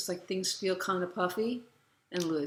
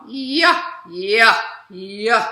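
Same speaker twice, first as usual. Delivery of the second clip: loud, punchy forward-placed calls; forward focus; 3 semitones higher, 13 dB louder, much slower than usual. Shown as a demonstration. Teacher showing the favourite exercise word, forward focus. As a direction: fling each "yeah" forward in chest voice. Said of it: "with a lot of forward focus".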